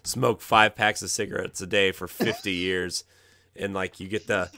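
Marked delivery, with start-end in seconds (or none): 0.0-3.0 rough, cracking hoarse throat. Real, not acted. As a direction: talk through a worn-out throat. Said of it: "Corey's voice is getting progressively and progressively rougher and rougher".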